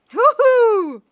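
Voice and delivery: high, loud party whoop; joyful woohoo. Real, not acted. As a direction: cheer like at a concert. Celebrating the song.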